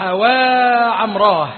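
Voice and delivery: long, loud drawn-out wail; loud wailing cry. A narrator's reading. Amir cries out for his slain brother, loud drawn-out wail. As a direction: stretch the cry out loud as if mourning. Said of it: "وصاح".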